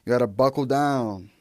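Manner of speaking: hammed-up middle school teacher pep talk; corny teacher quote. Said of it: "one of my middle school teachers used to always say".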